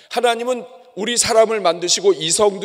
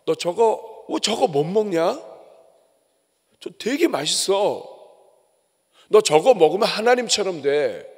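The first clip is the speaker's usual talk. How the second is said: tempting serpent. Retold or imitated. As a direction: coax her like a sly snake, only a hint of a voice. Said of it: "이 뱀이 하와에게 다가와서".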